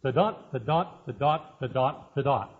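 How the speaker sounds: "the dot" repeated in da-DUM rhythm, stress on "dot"; iambic beat. Shown as a demonstration. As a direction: tap out the meter: the DOT, the DOT. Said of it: "Ten syllables, five beats".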